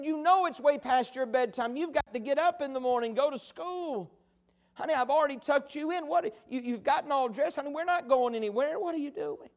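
lightly acted mother reasoning with her child; a touch of motherly bewilderment; puzzled mama. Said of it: "Mama just didn't know what to make of that".

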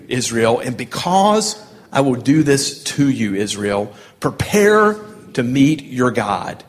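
leading a congregation reading aloud; solemn scripture reading. Acted. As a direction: proclaim it in weighty phrases with pauses. Leads congregation reading hymn aloud.

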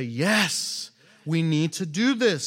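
eager, emphatic yes; rally to the cause with some excitement; excited agreement. Acted. The people answering Nehemiah's rally, excited agreement. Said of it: "They are excited".

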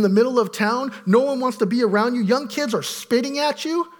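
a hint of scornful accusers; accusers' taunt. Pastor voicing the town mocking Job, lightly accusing.

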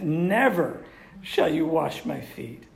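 NEVER drawn out and loud; emphatic refusal. Acted. Peter refuses to have his feet washed, NEVER said emphatically. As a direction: lean hard and slow on NEVER. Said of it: "it's emphatic and great".

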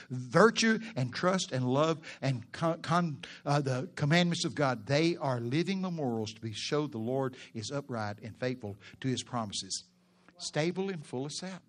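slow, swelling preacher's scripture reading. Acted. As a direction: read the verse like a preacher building up.

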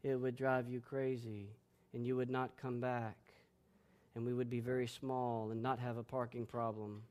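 quiet, flat, droning sermon voice; mock monotone preaching; monotone preacher. Shown as a demonstration. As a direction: drone on softly like a dull pastor. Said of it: "talks in a monotone voice".

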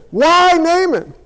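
high, slow indignant questions; indignant crowd demanding an answer; furious protest. Acted. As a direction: draw out each why in acted outrage. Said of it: "It made him furious".

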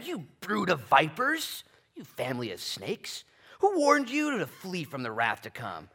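loud, high, slow rebuke; yelling prophet. Retold or imitated. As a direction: thunder it at the crowd. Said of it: "starts yelling at people".

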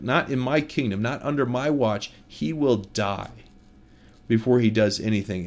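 mildly acted indignation, measured and emphatic; retold fury. Preacher as King David vowing death to the rich man, furious. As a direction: imitate an outraged king laying down the law. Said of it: "He is furious. He's like".

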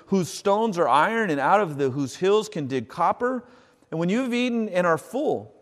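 reading scripture to the church, solemn. Acted. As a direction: proclaim the promised land to the congregation. Reads scripture aloud.

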